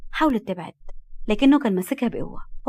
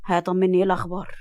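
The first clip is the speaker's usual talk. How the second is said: cool; 2 semitones lower than usual. Acted. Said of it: "رد ببرود وقال".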